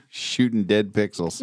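laughing. Real, not acted.

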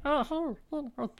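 a hint of a high, gloating villain; evil villain voice. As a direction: toy with him like a cartoon baddie. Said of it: "That's not really an Evil Villain voice".

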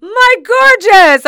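high, loud, drawn-out greeting; delighted cry. Retold or imitated. Older woman spotting her friend walk in, delighted cry. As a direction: mimic a gushing hello, stretched long and high. Retold greeting on meeting again.

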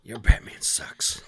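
slow, loud jeer; jeering shout; mock heckle. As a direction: drag it out like a convention heckler. Joins in the imagined convention heckling.

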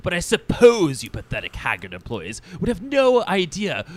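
rising to high, loud outrage; outraged diva boss. Acted. Boss berating staff over the venue, rising theatrical outrage. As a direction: build a pompous furious rant.

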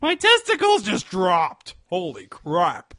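high squeaky cracking voice; voice cracking up an octave. Pretend. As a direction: squeal like a voice breaking. Mock puberty voice crack.

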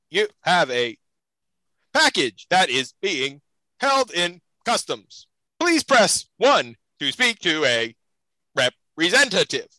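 halting automated phone recording, slightly slowed; robot voice. Retold or imitated. Automated scam call telling him about a package, mock robot voice. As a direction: chop it up like a recorded robot message. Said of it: "and a robot voice comes through".

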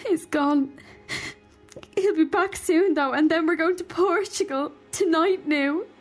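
put-on a touch of tearful panic in a young girl's voice; frightened girl. Frightened girl crying to the old woman about leaving. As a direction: let her fear crack the words.

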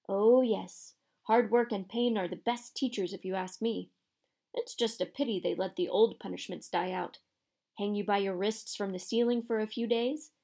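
lightly voiced gloating caretaker; leering caretaker. Caretaker threatens students with old punishments, leering. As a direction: savour the threat with a slight leer. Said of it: "leering at them".

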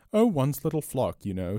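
high-starting, offhand explanation; blankly innocent. A narrator's reading. Priest explaining to the amazed robber, blankly innocent. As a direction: answer blankly, starting high and falling away. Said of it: "arching his eyebrows rather blankly".

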